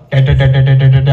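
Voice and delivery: staccato imitation of a trumpet; mock trumpet noise. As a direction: mimic a horn with repeated syllables. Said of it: "असा आवाज येईल". (तुतारीच्या आवाजाची नक्कल)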